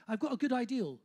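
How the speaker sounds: put-on Bristol accent demo, "idea" turned into "ideal"; Bristolian accent. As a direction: show off the Bristolian final L. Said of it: "that's the Bristolian accent".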